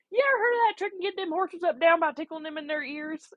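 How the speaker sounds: put-on high, rambling country accent; mock South Carolina country accent. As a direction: mimic a country caller running words together. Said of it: "kinda country accent".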